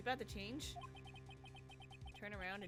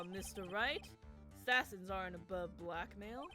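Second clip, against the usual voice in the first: sinister bro voice. Acted. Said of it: "the bro voice, but more sinister".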